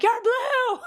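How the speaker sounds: high, loud, laughing yell; screaming you're blue at a friend, laughing; mock scream. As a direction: blurt it out with a laugh like an outburst. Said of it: "without screaming".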